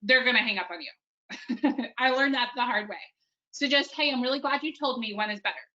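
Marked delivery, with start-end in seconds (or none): 3.9-5.7 quick and short, straight to the question; super fast. Shown as a demonstration. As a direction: rattle it off before they hang up. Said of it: "Super fast".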